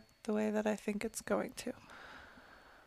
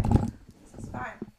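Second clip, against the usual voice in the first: exasperated muttering; 4 semitones higher, slower than usual. Real, not acted. Exasperated muttering at broken tech.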